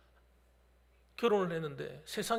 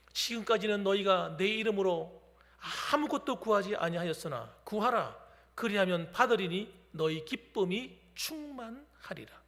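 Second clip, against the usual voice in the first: solemn scripture reading; 3 dB louder than usual. Acted. Preacher reads the Gospel verse to the congregation, solemnly. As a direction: read the verse like holy words, unhurried.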